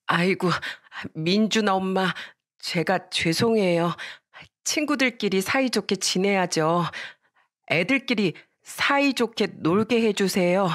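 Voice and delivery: slow, apologetic acted plea; urgent pleading. Mother grasps the friend's mother's hand, pleading apologetically. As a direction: plead gently with an offended neighbour. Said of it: "엄마는 다급하게 친구 엄마의 손을 잡으며".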